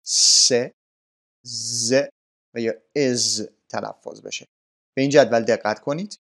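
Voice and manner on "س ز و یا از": endings س, ز and از sounded out separately; pronunciation demo. Shown as a demonstration. Teacher showing three verb endings, sounded out separately. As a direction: sound out س, ز and از one by one.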